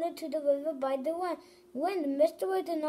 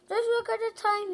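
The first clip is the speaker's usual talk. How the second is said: sudden alarm; 7 semitones higher than usual. Acted. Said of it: "he said".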